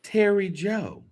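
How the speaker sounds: said again slowly and clearly; slow, clear repeat. Shown as a demonstration. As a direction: spell the name out slowly for someone.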